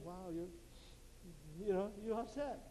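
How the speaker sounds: hushed, consoling friend; mock sympathy. Woman to her crying friend, mock sympathy. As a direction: console softly, hammed up a little.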